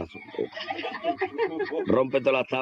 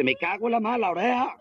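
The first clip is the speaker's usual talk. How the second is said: sorpresa alarmada; 8 semitones higher than usual. Retold or imitated. Descubre que le falta la oreja.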